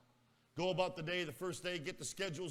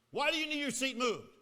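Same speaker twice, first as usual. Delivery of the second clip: puzzled teacher; 9 semitones higher, 8 dB louder than usual. Retold or imitated. Teacher questions him.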